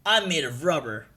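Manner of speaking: lightly voiced cartoon hero; a hint of a character voice; Luffy. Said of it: "That's the Luffy voice".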